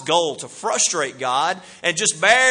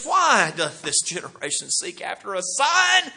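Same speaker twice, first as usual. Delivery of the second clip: weary Jesus. Retold or imitated. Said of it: "that's my impression of how he did this".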